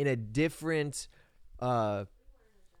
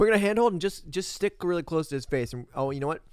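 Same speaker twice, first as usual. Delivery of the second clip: mock crew voice; 2 semitones higher than usual. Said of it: "it's like their tripod broke".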